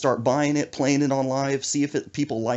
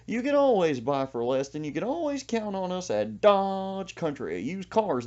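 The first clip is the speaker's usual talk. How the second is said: imitating a higher Texas redneck twang; redneck accent; 9 semitones higher than usual. Mocking a car dealer's ad in a redneck accent. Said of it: "he talks like a redneck".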